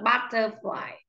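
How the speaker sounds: "butterfly" with an open Á first; correct pronunciation. Shown as a demonstration. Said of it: "Nó âm Á". (đọc "butterfly" với âm đầu là Á)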